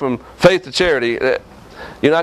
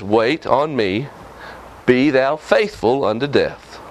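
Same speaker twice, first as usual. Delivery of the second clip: solemn God; 6 semitones lower, slower than usual. Retold or imitated. Preacher quoting God to his congregation, slow and solemn. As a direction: say it slowly and gravely, like God speaking.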